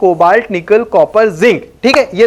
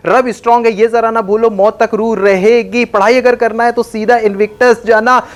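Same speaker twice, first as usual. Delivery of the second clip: brisk rhythmic chant of the jingle; rapid jingle recital. Shown as a demonstration. Teacher racing through periodic table jingle for students, rapid recital. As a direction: rattle off the mnemonic in one breath. Rattles off chemistry jingle quickly.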